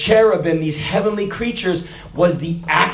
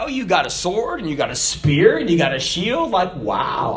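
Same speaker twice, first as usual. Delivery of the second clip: mocking David; 3 semitones lower than usual. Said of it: "I wonder if he mocked him".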